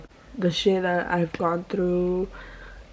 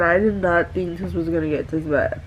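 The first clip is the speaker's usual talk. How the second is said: ugly crying, words breaking through sobs; crying hard while talking; snotty crying. Real, not acted. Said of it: "ugly crying out here".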